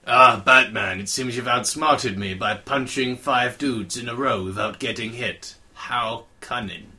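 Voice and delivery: a hammed-up Riddler, loud on "Ah, Batman" then slow; lightly voiced smug Riddler, slowing at the end; mock Riddler. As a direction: gloat like a cartoon villain. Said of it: "that's not the Riddler I like".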